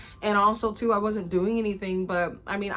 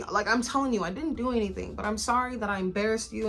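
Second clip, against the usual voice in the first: apologetic. Retold or imitated. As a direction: beg forgiveness, rushing a bit. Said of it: "I was so apologetic".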